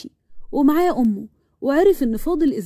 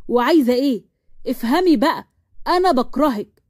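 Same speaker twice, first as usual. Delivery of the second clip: restrained irritated confrontation; mild acted shouting, fed up; yelling. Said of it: "ومروان ابتدى يزعق".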